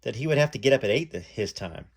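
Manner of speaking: reading a memoir aloud, lightly voicing the callers; story narration. A narrator's reading. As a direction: read it like telling the story to an audience. Reads memoir aloud to viewers.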